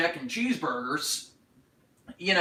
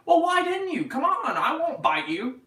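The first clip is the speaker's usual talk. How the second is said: playful teasing; 13 semitones higher, 3 dB louder than usual. Real, not acted. Teasing shy fans.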